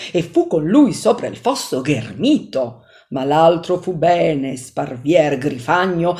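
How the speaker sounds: measured, declaiming reading of Dante's verses; poem recitation. Acted. Teacher reading Inferno canto to listeners, solemn dramatic recitation.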